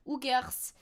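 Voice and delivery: "who cares" in a mock European accent; put-on foreign accent.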